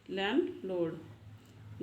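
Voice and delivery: लैंडलॉर्ड drawn out very slowly, each sound spelled out; teacher modelling लैंडलॉर्ड very slowly for practice; slow clear demo. Shown as a demonstration. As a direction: stretch लैंडलॉर्ड out slowly so learners can copy it. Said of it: "इसका pronunciation भी बताने वाली हूँ".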